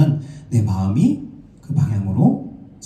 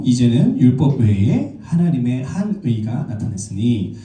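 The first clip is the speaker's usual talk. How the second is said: slow, measured Bible reading; deliberate recitation of a verse; scripture reading. Real, not acted. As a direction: read the verse out slowly and formally. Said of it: "제가 읽어드릴게요".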